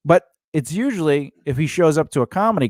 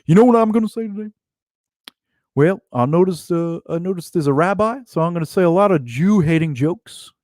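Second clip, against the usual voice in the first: mock hateful comedian; 3 semitones higher than usual. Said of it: "going up there and going".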